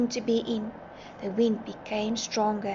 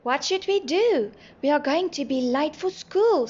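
raised, higher voice with worry; anxious, louder exclamation; nervous; 5 semitones higher, 5 dB louder than usual. A narrator's reading. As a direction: ask it in mild panic. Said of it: "said Nelly nervously".

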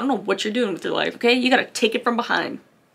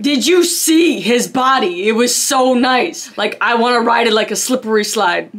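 gushing gossip voice; 4 dB louder than usual. Retold or imitated. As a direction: gush about a crush.

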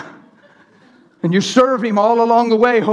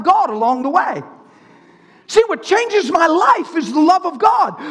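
high, urgent sermon delivery; fervent preaching; 6 semitones higher than usual. Acted. Preacher correcting religious people about God's love, fervent preaching.

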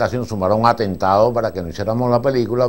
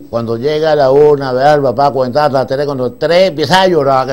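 put-on coaching the child; 3 semitones higher, 6 dB louder than usual. Director instructing child again.

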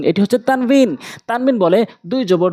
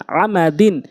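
syllables joined into one word; quick reading; slower than usual. Shown as a demonstration. Teacher showing learners the proper reading, quickly. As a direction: read it briskly, vowels short. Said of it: "দ্রুতটা উচ্চারণ করতে হবে".

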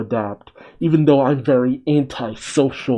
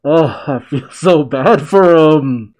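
laughing sympathy; 3 semitones higher, 7 dB louder, slower than usual. Real, not acted. Sympathy for grieving kid.

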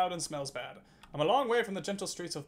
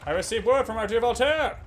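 louder, announcing a letter from Voltaire; character read; 5 dB louder than usual. Acted. Streamer reading the Comte's news about Voltaire, loud and proclamatory. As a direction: proclaim it like an excited noble. Reads game letter aloud.

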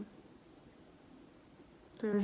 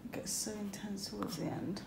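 soft whisper; 6 dB quieter than usual. Real, not acted. Repeats labour line softly.

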